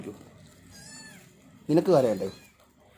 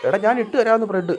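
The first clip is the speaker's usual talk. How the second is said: raised, higher voice, insisting; exasperated shout; 7 semitones higher, 7 dB louder than usual. Real, not acted. Owner telling impatient pets bread is coming, exasperated shout. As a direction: scold loudly while promising.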